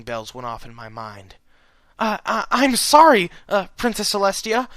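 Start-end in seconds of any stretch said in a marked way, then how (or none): 2.0-4.7 rapid apology. A narrator's reading. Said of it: "Lyra apologized rapidly".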